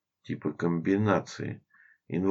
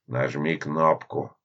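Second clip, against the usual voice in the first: moaning; 2 semitones lower, slower than usual. Acted. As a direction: groan it out wearily. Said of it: "простонал Эдуард".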